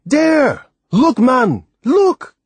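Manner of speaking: high, loud, impatient shouts; scornful. Acted. Timothy impatiently points out the island, scornful loud shouts. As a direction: jab each word at him, exasperated. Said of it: "Timothy answered scornfully".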